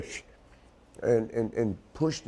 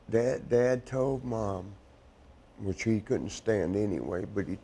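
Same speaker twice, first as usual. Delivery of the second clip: tearful. Real, not acted. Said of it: "I'm sorry I'm crying".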